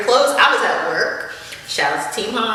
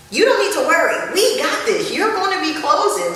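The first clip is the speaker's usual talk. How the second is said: imitating Brandon; 9 semitones higher than usual. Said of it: "He was like".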